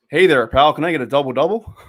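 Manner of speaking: a light go at a Canadian accent. Shown as a demonstration. Streamer asked for an accent, lightly attempted Canadian accent. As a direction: try out a friendly Canadian accent. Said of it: "Canadian accent?".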